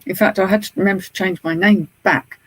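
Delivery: usual speaking voice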